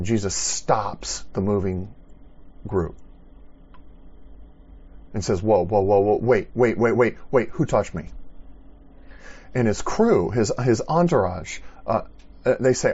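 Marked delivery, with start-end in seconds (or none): 5.4-8.1 loud urgent halt, mildly acted; calling out to stop. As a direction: stop the crowd with a raised call. Jesus stops the crowd abruptly.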